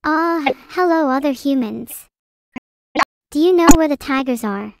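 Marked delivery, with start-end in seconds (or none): none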